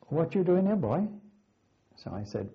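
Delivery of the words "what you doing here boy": high, loud retold Welsh challenge, Welsh lilt. Welsh rugby man challenging a young cadet, loud Welsh accent. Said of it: "he said to me in his Welsh voice".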